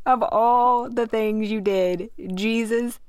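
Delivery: words breaking into laughter, pitch climbing; laughing. Real, not acted. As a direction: laugh through the punchline about Jesus. Laughing at the cursing regret.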